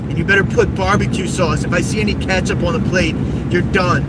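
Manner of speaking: mock tantrum, yelling at mom; bratty kid yelling. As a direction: scream demands like a spoiled gamer kid. Mocking a whiny kid demanding food.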